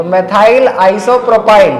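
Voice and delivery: methyl isopropyl stretched out very slowly; teacher spelling the name out slowly; very slow dictation. Shown as a demonstration. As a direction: drag each syllable out for the class. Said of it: "क्या बोलेंगे?".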